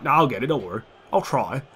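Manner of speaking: lightly put-on goalkeeper voice; a hint of a casual impression; Begovic. Player voicing his keeper's excuse, lightly put-on. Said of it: "why Begovic sounds like that".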